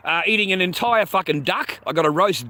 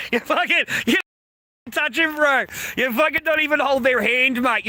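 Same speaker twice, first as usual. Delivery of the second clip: angry retort; 7 semitones higher than usual. Retold or imitated. Retold row with wife.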